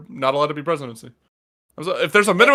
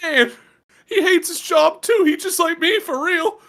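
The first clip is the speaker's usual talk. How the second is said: relatable voter; 12 semitones higher than usual. Acted. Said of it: "some people be like".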